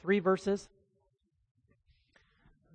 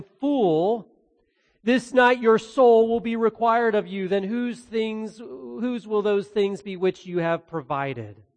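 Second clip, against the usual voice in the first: stern God; 2 semitones higher, slower than usual. Acted. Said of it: "But God said to him".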